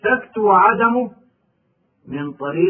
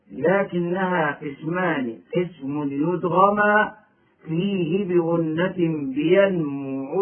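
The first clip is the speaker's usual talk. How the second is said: softer, slower chanting of the teaching poem; verse recitation; 3 dB quieter, slower than usual. Shown as a demonstration. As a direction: intone the rhyme like a memorised text. (إنشاد هادئ لمتن التجويد)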